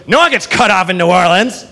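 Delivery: mock drunken defiance; drunk woman. Drunk woman refusing to be cut off, defiant. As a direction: argue back like a hammered customer. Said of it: "she's hammered, just fucking slaughtered drunk".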